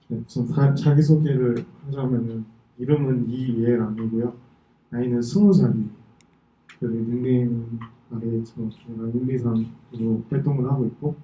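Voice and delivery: speaking after a wisdom tooth extraction; talking around a sore, numb jaw; sore mouth after tooth pulled. Real, not acted. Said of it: "제가 어제 사랑니를 갈취해가지고 발음이 좀 안 좋을 수도".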